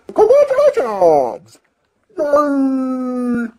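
high, laughing congratulations; delighted fan cheering. Real, not acted. Cheering Sting's debut.

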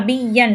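பிஎன் with a held, doubled y; pressed doubled y. Shown as a demonstration. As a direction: lean into "biyy-yan" for பிஎன். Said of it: "நல்லா அழுத்தி உச்சரிக்கும்".

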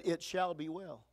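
soft, slow "It shall be well"; hushed quiet trust; quiet declaration. Shown as a demonstration. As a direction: say it softly and slowly, full of faith. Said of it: "She just said".

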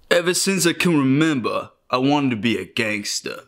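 put-on New York accent. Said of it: "Working on my New York accent".

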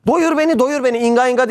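put-on crying hungry baby. Hungry baby crying for food, mock wail. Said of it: "diye bağırmıyor mu aç kalan bebek".

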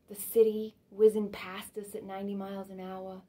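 lightly voiced nostalgic monologue, swelling and fading; Fanny reminiscing. Fanny recalls sledding with Daddy to a listener, mildly wistful and animated. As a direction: relive sledding days, lingering on the memories.

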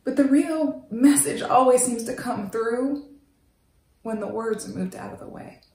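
hushed, intimate whisper. Acted. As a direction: barely breathe the words to him. Intimate confession to Wendell.

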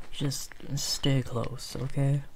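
slow and gentle; gentle reassurance. Acted. Leading the scared sheep.

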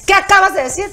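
mildly heated confrontation; retold anger. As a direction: press her for an answer, annoyed. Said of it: "Pero yo ya así enojada".

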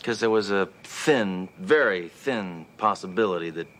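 slow, reluctant, fading admission; reluctantly conceding to partner, slowly; grudging admission. Acted. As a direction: drag the words out unwillingly. Grudgingly admitting partner was right.

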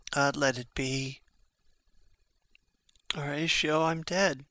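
breathless whisper, no voice left; dying whisper. Acted. Dying Hamlet to Horatio, a faint whisper. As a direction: whisper it as life slips away.

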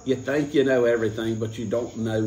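hammy stab at Australian; attempted Australian accent. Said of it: "No, that is Australian".

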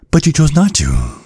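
bitter laugh. Acted.

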